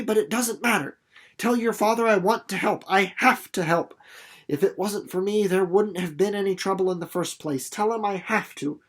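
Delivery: lightly voiced girl, pleading; insistent girl. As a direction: press the point, earnest. Reads Winnie insisting.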